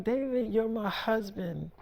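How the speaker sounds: quietly voicing a wife's appeal; hushed, intimate imitation; soft retold appeal. Retold wife appealing to husband.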